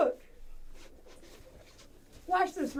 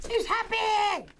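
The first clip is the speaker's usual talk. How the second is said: excited; 6 semitones higher, slower than usual. Real, not acted. Excited about balloon.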